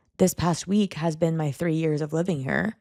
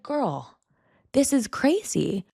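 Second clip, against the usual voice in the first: mock exasperated self-talk; 7 semitones higher, much slower than usual. Scolding herself in self-talk.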